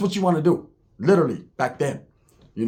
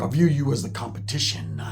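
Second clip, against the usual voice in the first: imitating a big old biker, lowered; 4 semitones lower, 4 dB quieter than usual. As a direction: do the biker's low voice. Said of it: "that's how he talked".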